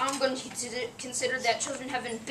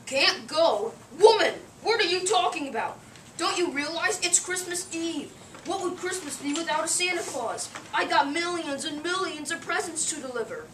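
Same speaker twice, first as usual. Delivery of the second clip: indignant outburst; 3 semitones higher than usual. Acted. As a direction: bristle at the very idea. Santa outraged at being stopped.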